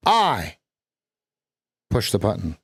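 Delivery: I, long pause, the stressed. Shown as a demonstration. Coach shows stress on the. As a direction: hold I then hit the. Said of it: "we could put an emphasis on any syllable".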